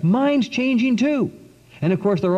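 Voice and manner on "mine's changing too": excited cry. Retold or imitated. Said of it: "another one screamed out".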